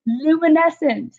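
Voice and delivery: high and slow, savouring "luminescent"; drawn-out awed child; amazed kid voice. Retold or imitated. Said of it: "She's like".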